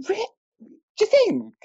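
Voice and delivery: high, slow put-on radio voice; hammed-up jingle announcer; catchphrase voice impression. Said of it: "You've been working on that impression".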